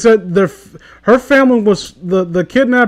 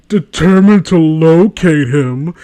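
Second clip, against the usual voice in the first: sarcastic air quotes; 6 dB louder, slower than usual. Retold or imitated. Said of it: "quote unquote".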